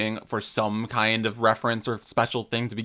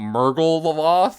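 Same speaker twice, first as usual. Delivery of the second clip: dramatic villain voice; 5 semitones higher, 4 dB louder, much slower than usual. Retold or imitated. Dramatic reveal of item name.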